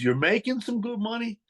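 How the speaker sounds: a skeptical boss repeating the boast; incredulous echo. Retold or imitated. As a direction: throw his words back at him, stunned.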